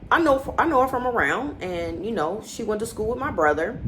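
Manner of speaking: the man on the show, hemming about how he knows her, mildly mocked; evasive hemming. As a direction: stall and hedge like you're hiding something. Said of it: "He's like".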